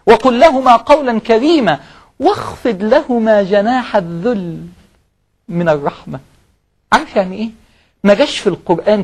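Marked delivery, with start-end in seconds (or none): 0.1-6.2 very slow recital of the verse; slow scripture recital; Quran recitation. Acted. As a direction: stretch the verse out gently.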